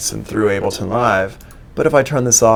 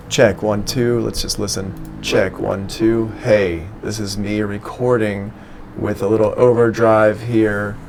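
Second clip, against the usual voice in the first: overdrive loudspeaker effect; slower than usual. Shown as a demonstration. Teacher demoing overdrive on his mic, distorted loudspeaker sound. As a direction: voice pushed through a distorted loudspeaker. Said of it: "sounds like I'm going through, like, a kind of a loudspeaker".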